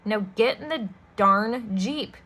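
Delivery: put-on slow, menacing order to the children; menacing villain. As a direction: snarl the order slowly. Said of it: "that's not what that says".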